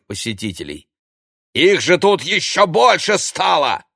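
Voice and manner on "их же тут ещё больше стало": high, loud exasperation; angry outburst. A narrator's reading. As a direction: erupt at the sight of them. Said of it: "злобно выдохнул он".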